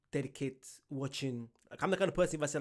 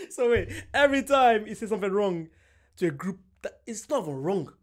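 raised voice; 5 semitones higher, 7 dB louder than usual. Real, not acted. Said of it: "Sorry for screaming".

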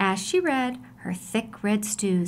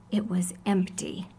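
hushed whisper of disappointment; whispered reveal of the empty pot; 4 semitones lower, 5 dB quieter than usual. A narrator's reading. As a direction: whisper the sad surprise.

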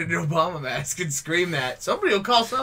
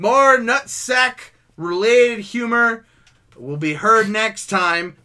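announcer sign-off; 3 semitones higher, much slower than usual. Pretend. Mock show sign-off.

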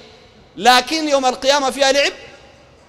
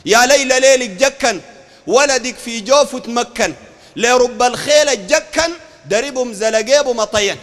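slow, rhythmic verse recitation; measured metre of a quoted ode; poem recital; slower than usual. Acted. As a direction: stretch each line to its rhyme. Reciting Sufi poem he criticises.

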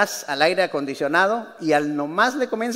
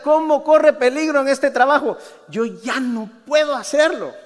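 mock tearful complaining; 2 semitones higher than usual. Paul whining to the church about his job, mock tearful. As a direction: play Paul as a self-pitying complainer, half-joking. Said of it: "que dijera llorando todo el tiempo".

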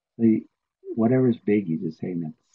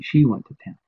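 stubborn repeat; 4 semitones higher, 5 dB louder, faster than usual. Retold or imitated. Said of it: "And I kept saying".

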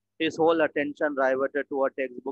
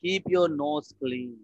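slow, careful repeat; slower than usual. Shown as a demonstration. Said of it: "What phrase is this?".

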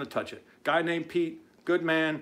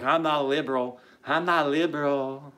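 mocking whine. Host mimics Wilbur denying the label, mocking whine. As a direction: mimic a whining denial. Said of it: "every word that comes out of his mouth is a whine".

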